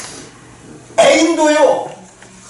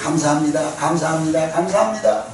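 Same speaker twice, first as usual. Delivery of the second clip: softer repeated thanks, gentle; grateful thanks; 6 semitones lower, 4 dB quieter than usual. Shown as a demonstration. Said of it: "감사한 일로 바뀝니다". (부드럽게 감사하며)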